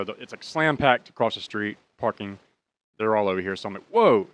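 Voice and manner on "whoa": a high, loud amazed whoa. Retold or imitated. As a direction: let the whoa leap up in amazement. Crowded parking lot.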